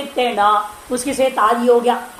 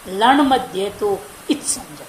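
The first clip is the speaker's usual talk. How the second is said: sutra recitation; 4 semitones lower, 4 dB quieter, slower than usual. Shown as a demonstration. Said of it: "इसे उस प्रतिज्ञा वचन में कहा गया था".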